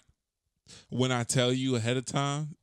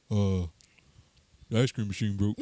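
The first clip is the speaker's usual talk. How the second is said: fast food worker; 3 semitones lower than usual. Pretend. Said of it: "Do your best impression of a fast food worker".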